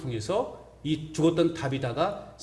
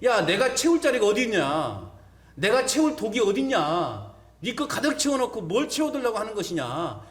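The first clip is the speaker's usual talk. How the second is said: God rebuking; 4 semitones higher than usual. Retold or imitated. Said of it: "하나님 말씀하실 거예요".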